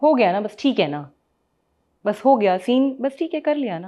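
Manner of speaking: mock older voice, impatient, wrap-it-up tone. Describing how some seniors act these days, imitating an impatient senior. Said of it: "कुछ-कुछ ऐसे हो गए कि बस कर लेना काम".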